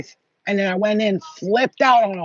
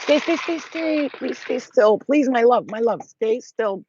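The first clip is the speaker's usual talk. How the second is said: coaxing plea; 3 semitones higher, slower than usual. Real, not acted. Pleading with restless cat.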